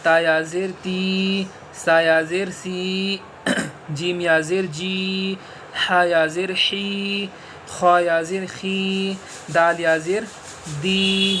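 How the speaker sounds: slow, even spelling-out chant; spelling drill. Shown as a demonstration. Teacher spelling letters for a beginner, steady and measured. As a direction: spell each letter out for a student.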